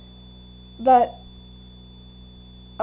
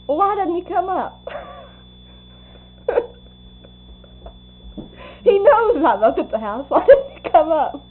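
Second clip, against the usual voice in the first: raised, higher, louder retold complaint; imitating the girlfriend fuming down the phone; irate demand; 7 semitones higher, 6 dB louder than usual. Celia on the phone to the club room, demanding Mike come up, in an irate raised voice.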